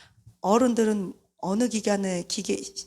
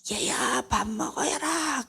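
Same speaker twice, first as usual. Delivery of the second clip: mother calling up; 4 semitones higher, slower than usual. Retold or imitated. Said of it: "소리를 질러야 돼요".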